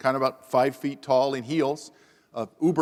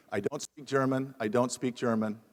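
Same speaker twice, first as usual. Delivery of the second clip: muttered under the breath, much softer; nervous rehearsal; 4 semitones lower, 6 dB quieter than usual. Retold or imitated. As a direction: rehearse it nervously to yourself, barely audible. Rehearsing apology as policeman approaches.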